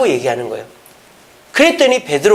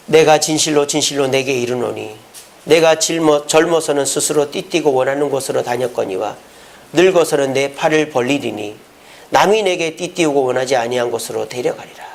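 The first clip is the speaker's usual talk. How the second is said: even, lower-pitched recitation of scripture; scripture reading; 3 semitones lower than usual. Acted. Preacher reading Jesus' words to the congregation, scripture reading. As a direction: read the verse out in a level, measured tone.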